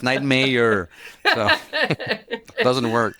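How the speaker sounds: nightmare said the French Canadian way, an easy light touch; French Canadian accent. Shown as a demonstration. Nightlife commissioner jokes about his title, in French Canadian accent. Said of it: "I have a French Canadian accent".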